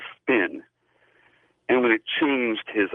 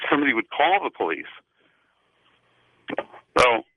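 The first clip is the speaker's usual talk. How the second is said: wet mouth, just gargled; while gargling; 3 semitones higher, faster than usual. Real, not acted. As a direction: talk with liquid in the mouth. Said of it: "I'm gargling to keep my mouth wet".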